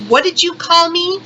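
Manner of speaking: sharp rising challenge, pitch jumps up; snapping back. Retold or imitated. Woman snapping at the cashier, sharp and offended. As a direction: demand he repeat it, offended. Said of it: "I just snapped at that point".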